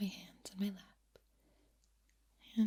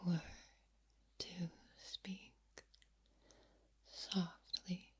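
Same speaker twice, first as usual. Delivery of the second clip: breathy and soft. Shown as a demonstration. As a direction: let extra breath flow between the words. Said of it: "with a little more breath, it would sound like this".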